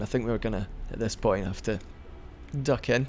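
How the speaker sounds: talking through hiccups; hiccuping between words. Real, not acted. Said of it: "Sorry, I'm hiccuping".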